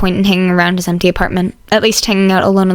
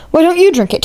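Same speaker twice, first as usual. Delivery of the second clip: higher, courteous voice; polite classmate; 8 semitones higher than usual. Acted. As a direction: ask politely to join the table. Ida asks.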